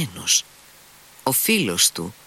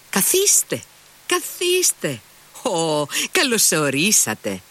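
high, bright-pitched greeting; eager welcome; 8 semitones higher than usual. A narrator's reading. Kalganov welcomes Mitya.

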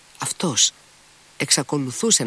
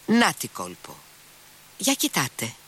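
sudden shriek; 5 semitones higher than usual. A narrator's reading. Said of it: "τσίριξε ξαφνικά ο λοχαγός".

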